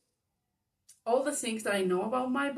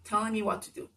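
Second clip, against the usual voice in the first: mother's retort; 4 dB louder than usual. Retold or imitated. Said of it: "And then she's like".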